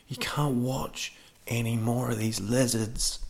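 lightly dramatised telling-off; added drama. Retold or imitated. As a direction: retell it with a bit of extra drama. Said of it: "Again, bit of added drama".

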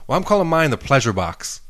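a hint of imitated American accent. American gambler naming her betting box, lightly imitated American accent. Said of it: "She had, like, American accent".

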